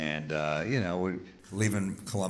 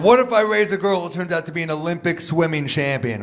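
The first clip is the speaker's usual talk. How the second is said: much higher, louder mock whine; hammed-up outraged friend; indignant friend; 9 semitones higher, 10 dB louder than usual. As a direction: squeal his indignant what-if. Retold friend's indignant question.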